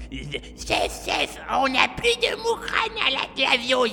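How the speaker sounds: panicked high yell. Retold or imitated. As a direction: shout it out in a panic. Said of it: "en courant et en hurlant".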